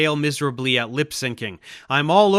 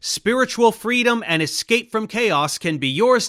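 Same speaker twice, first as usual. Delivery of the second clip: hard sell ad; 2 semitones higher than usual. Pretend. Mock infomercial for Carson's idea.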